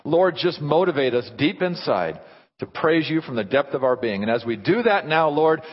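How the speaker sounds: earnest, emphatic pastoral prayer; public prayer. Real, not acted. Pastor praying to the Father for the congregation, earnest. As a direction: plead fervently, then settle toward the close.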